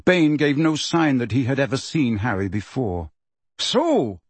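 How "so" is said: high, sneering "So"; nasty. Acted. Bane sneers at Hagrid, high and nasty. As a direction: drip contempt on the one word. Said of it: "with a nasty inflection in his voice".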